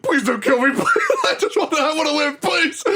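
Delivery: high, pleading squeaky voice; whiny begging Hercule. Retold or imitated. Hercule begging the fighter not to kill him, high whimpering plea. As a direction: beg for your life in a high whine.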